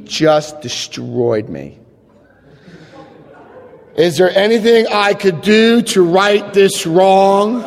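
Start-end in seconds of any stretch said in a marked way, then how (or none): 4.0-7.6 rote amends. Retold or imitated. Amends line as drawn-out refrain.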